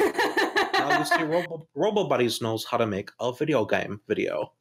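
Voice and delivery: lightly put-on video reviewer voice; Ragnarok's. Friend imitates a video maker introducing a game video, mock reviewer voice. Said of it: "is Ragnarok's gonna be like".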